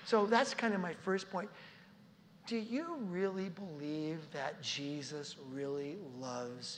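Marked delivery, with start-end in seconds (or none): 2.5-6.8 slow, soft question fading low; tender question. Real, not acted. Preacher asking the congregation if Jesus loves them, tender. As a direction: ask it gently, right to the heart.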